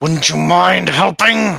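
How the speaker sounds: growled speech, words a little broken. A game master voicing a character to the players: growling in broken Common. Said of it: "She kind of growls out uh, in broken common".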